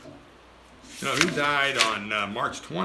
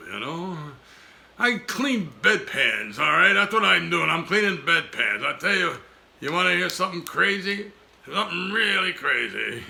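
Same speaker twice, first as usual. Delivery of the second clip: Dodney; 4 semitones higher than usual. Acted. Ventriloquist dummy answering host.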